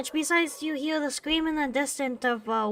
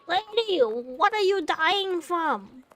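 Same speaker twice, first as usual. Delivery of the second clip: calling out; 4 semitones higher, 5 dB louder than usual. Real, not acted. Player shouting at screaming woman.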